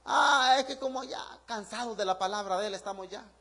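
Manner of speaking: mock sigh of boredom, trailing off softly; imitating a fed-up listener; weary complaint. Congregation complaining about their pastor's word, mock-weary. Mimics congregation tired of preaching.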